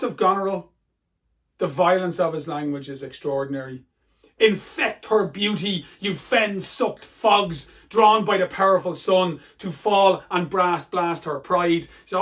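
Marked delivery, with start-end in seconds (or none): 4.4-11.9 cursing Lear. Acted. Teacher voices Lear cursing Goneril.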